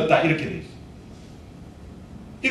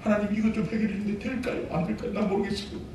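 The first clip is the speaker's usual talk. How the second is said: whiny worried prayer; 11 dB quieter, faster than usual. Retold or imitated. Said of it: "기도하면서 염려해요".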